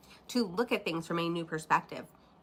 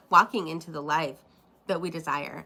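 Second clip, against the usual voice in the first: speaking through a dry throat; dry-mouthed after coughing; 3 dB louder than usual. Real, not acted. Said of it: "my mouth is dry from coffee".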